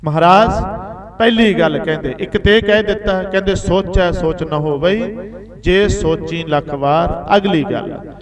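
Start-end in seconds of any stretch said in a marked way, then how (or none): 3.5-7.4 slow, measured recitation of the verse; scripture recitation. Acted. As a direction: intone the holy line slowly. Recites gurbani verse slowly. (ਹੌਲੀ ਹੌਲੀ ਬਾਣੀ ਦਾ ਪਾਠ)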